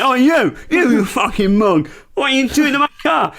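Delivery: hammed-up road rage; mock angry shout. Shouting at driver who hit car.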